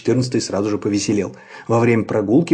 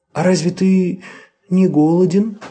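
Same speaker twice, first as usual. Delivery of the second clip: soft sweet voice; 7 semitones higher, 4 dB louder than usual. A narrator's reading. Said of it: "мягким голоском спросил".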